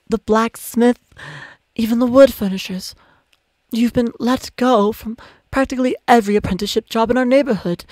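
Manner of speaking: gentle mother Ilya. Acted. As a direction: coax the truth out gently. Ilya listing jobs.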